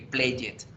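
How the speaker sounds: "play it" for played, as two syllables "play-yet"; beginner's mispronunciation. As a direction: imitate a beginner saying "play it" with a full -ed syllable. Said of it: "como pronunciamos al principio". ("play it" como principiante, en dos sílabas)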